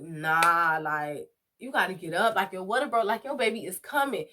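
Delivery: loud, insistent self-talk; urgent self-talk. Retold or imitated. Pushing herself to get up in labor, loud and urgent. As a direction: tell yourself to get up now, loudly. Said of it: "I'm like".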